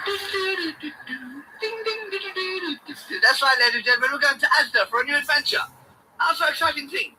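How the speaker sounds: high, loud showman hype; ding ding like a game-show bell; hyped announcer. Acted. Vlogger announcing the Asda trip, loud high hype. Repeat of jingle.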